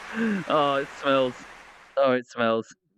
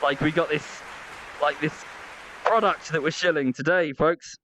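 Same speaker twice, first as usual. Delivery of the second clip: lightly hammed-up product plug; hyped streamer pitch. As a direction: parody an excitable streamer's ad read. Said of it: "weird vocalizations and bouncing up and down".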